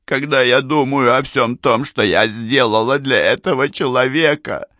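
high, aggrieved lament; breaking down. A narrator's reading. Mrs. Amberley recalls all she did for him, breaking down. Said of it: "снова не выдержала миссис Эмберли".

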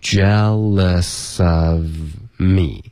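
"jealous of me" slowly, s carried into of; slow jealou-sof for "jealous of", then me; "jealous of me" stretched out to show the link. Shown as a demonstration. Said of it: "跟of连读".

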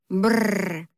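mock buzzer sound for a wrong answer; guttural buzzer noise. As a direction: rattle it like a game-show buzzer. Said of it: "снова издала тот звук".

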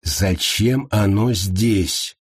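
very slow, stressing оно; insistent repeat. A narrator's reading. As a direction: drag out each word, stress оно. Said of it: "повторил вопрос Ярго".

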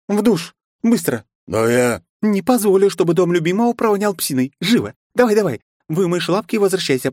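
high strict hostess; bossy girl. Acted. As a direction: order him about, shrill and firm. Kristina ordering werewolf.

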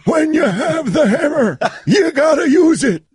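Kevin Harlan impression. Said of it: "Dance fake Kevin Harlan".

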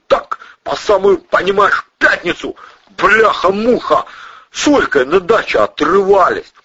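high, loud slangy thug, excited; excited thug suspect. Acted. Suspect to colonel, excited slangy thug. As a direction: blurt out the alibi eagerly. Protasov voiced high throughout.

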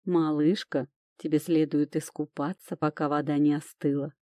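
мягко и чуть ниже, на ушко; «Малышка» ласково и заботливо. Acted. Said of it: "заботливо сказал Тирон мне на ушко". (Тирон заботливо шепчет героине на ушко, мягко)

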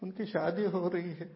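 rapid laughing doom talk; gloomy pessimist. Retold or imitated. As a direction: rattle off worries while laughing.

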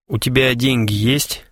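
a mild, concerned question to a friend; understated care for a departing friend; caring. A narrator's reading. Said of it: "заботливо спросил Клинков".

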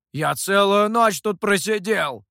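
loud, slow indignant protest. A narrator's reading. Mikhou indignantly protests to his friends. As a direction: protest the long night wait. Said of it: "возмущённо переспросил".

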